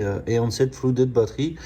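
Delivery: slow, careful English words in a French accent. Real, not acted. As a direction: read the English label with a heavy French accent. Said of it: "pardonnez-moi pour mon accent anglais". (anglais lu lentement avec un fort accent français)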